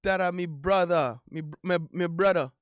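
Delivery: a light Caribbean lilt on "me brother"; a hint of an island girlfriend; imitated Caribbean accent. Streamer joking about a Caribbean proposal, lightly accented. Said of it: "She like".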